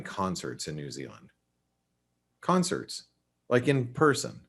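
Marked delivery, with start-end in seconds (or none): 2.4-4.4 amazed. Real, not acted. Amazed at concerts in New Zealand.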